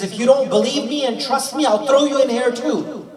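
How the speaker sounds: storyteller voicing a king's threat; retold threat. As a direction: deliver the king's warning with force. King threatens the companion in story.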